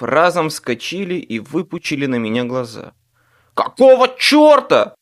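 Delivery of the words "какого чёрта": loud, high startled bark. A narrator's reading. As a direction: snap it out loud. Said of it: "рявкнул Руди".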